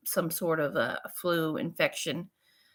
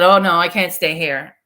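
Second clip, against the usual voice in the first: much louder, urgent refusal; loud protest; 10 dB louder than usual. Retold or imitated. To the patient opposite, refusing to stay, loud protest. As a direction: push back hard, wanting out.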